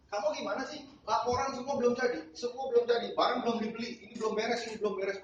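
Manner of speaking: high-pitched, fast mock scolding; imitating an irritated boss on the phone. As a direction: rattle off the boss's complaints.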